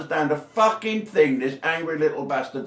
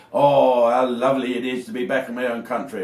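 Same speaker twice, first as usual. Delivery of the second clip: mock lefty luvvie; 3 dB louder than usual. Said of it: "champagne socialists that go back to Wales and say".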